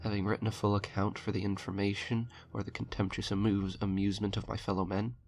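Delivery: measured, grave reading of a dark tale; horror story narration. A narrator's reading. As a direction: read it like a confession from a doomed man.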